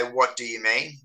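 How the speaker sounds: "What do you mean" run together casually; casual run-together pronunciation. Shown as a demonstration. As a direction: slur "do you" together in everyday speech. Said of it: "when we say".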